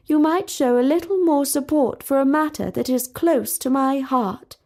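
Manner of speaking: a hint of a princess, coolly offended; lightly voiced stiff princess. Talia replies coolly.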